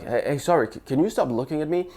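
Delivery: hesitant and apologetic, stumbling on the start; shy nervous. Shown as a demonstration. Guy at a bar losing his nerve, shy and nervous. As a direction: lose your nerve halfway through the line. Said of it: "in a shy, nervous voice".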